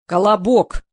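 loud curt bark. Acted. Irritated actor answering the director, barking loudly. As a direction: snap the word out loud. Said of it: "рявкнул Полканов".

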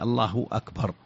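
الله أكبر as "Allahu akbar" with a glottal stop opening أكبر; clear cut hamza. Shown as a demonstration. Scholar teaching the correct takbir wording, hamza clearly cut. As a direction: voice the u of الله, then start أكبر cleanly. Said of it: "وأكبر الهمزة مقطوعة".

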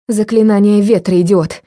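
яростно прошипеть выше и громче; процеди со злостью; шипение сквозь зубы. Acted. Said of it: "прошипела я". (злобно шипя)

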